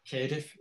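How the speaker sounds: Cardiff pronounced "Kairdiff"; traditional Cardiff vowel. Shown as a demonstration. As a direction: say Cardiff with the local "air" vowel. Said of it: "referring to certain vowel sounds".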